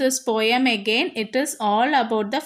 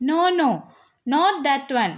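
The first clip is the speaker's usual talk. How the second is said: mom warning; slower than usual. Acted. Mom warns Gopi in story.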